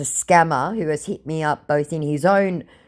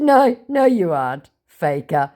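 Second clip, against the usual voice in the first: teasing; 3 semitones higher, 4 dB louder than usual. Retold or imitated. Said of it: "I said".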